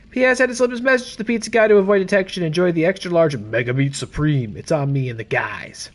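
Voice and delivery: lightly acted buddy reading a note aloud; voiced colleague's message. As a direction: read it as a chummy police colleague. Reads Brad's postscript in character.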